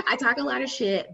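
laughing admission, sped up. Real, not acted. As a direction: repeat it giggling. Laughing repeat after laugh.

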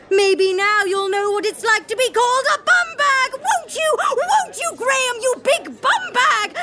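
put-on villain taunting the old school bully, high and sneering; gloating villain. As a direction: gloat over him like a cartoon villain. Villain gloats over his revenge.

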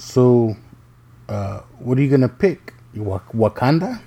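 teasing question lifting at the end; joking around. Retold or imitated. Dad ribbing his daughter about her school project, joking. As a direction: ask it as a dad's wind-up. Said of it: "joking around".

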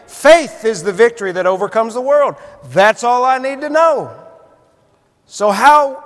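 usual speaking voice

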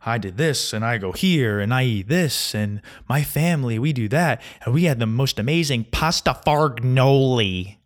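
bragging imitation with swooping, singsong stresses; one-up everyone with showy, lilting boasts; mock smartass. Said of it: "trying to sound like a smartass".

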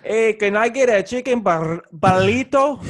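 mock Mexican accent ordering food; put-on Mexican accent, hammy. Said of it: "when I try to do a Mexican voice".

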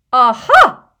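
hammed-up theatrical aha; Trelawney catching Harry out with a loud cry; cried out. A narrator's reading. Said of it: "she cried".

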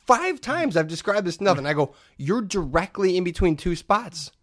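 mildly angry, pressing for an answer. Retold or imitated. Shopper telling woman she straddles two spots, mildly angry. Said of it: "I've now gone to an angry tone".

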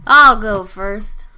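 slow, drawn-out country twang; folksy country drawl; redneck voice. Acted. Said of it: "As she says in her redneck voice".

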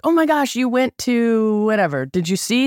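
high, gushing mock excitement; gushing tourist. Friends asking about sights, mock gushing high. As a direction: play the eager sightseer quizzing her. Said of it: "So people will be like".

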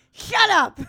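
high, loud laughing protest; loud laughing scold; laughing shut up. Real, not acted. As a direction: shriek through laughter. Laughing outrage at friend.

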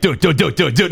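frat bro. Retold or imitated. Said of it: "they're all white and they're like".

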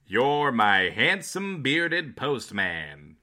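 slow, loud announcer read; old radio announcer. Acted. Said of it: "like an old-timey radio announcer".

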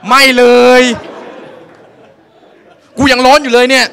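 high, loud protest; indignant yell. Retold or imitated. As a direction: shout back still burning. Yelling back at masseuse.

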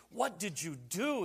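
mock-angry, drawn-out demand; confronting husband. Preacher confronts his wife over the dress, mock-angry. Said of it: "he confronts his wife".

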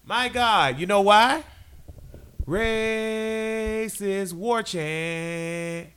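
high, drawn-out disgusted rant; exasperated rant. Real, not acted. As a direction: drag out the disgust at Saint Louis. Ranting about rival team.

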